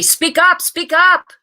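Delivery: high, loud, coaxing call; teacher pushing a shy girl to speak up; urging teacher. A narrator's reading. Teacher coaxing Shirley, loud and high.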